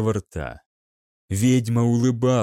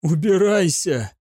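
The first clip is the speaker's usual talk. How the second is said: hoarse cry; 4 semitones higher than usual. A narrator's reading. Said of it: "прохрипел Гаунт".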